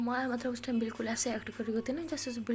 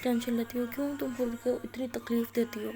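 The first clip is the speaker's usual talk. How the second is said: retold crying plea. Aliya crying alone in the washroom, lightly tearful plea. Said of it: "رونے لگ جاتی ہے".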